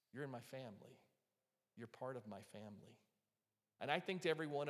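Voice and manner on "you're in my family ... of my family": soft and tender, welcoming her into the family; tender Jesus voice. Acted. Jesus tenderly welcoming the healed woman, softly. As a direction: say it gently, like a father to a daughter. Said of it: "you can kinda hear in his voice".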